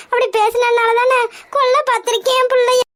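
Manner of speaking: tearful, voice breaking with sobs; choked crying mother. Acted. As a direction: weep out the words in fear for her child. Mother weeping over threatened daughter.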